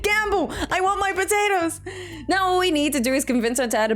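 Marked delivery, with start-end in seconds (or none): 0.0-1.8 high-pitched mock crowd demand; imitating eager gamblers. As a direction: mimic greedy chat clamouring in a higher voice. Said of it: "Everyone's like".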